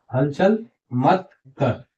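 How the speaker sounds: हलचल मत कर read out slowly word by word; slow reading demo. Shown as a demonstration. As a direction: sound it out slowly for learners. (धीरे-धीरे पढ़कर दिखाना)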